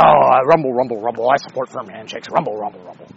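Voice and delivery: mock crowd murmur. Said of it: "And everybody's like".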